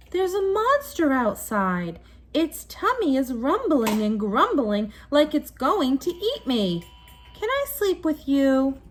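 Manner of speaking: high pleading cub voice; frightened little bear. Acted. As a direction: beg like a scared small child.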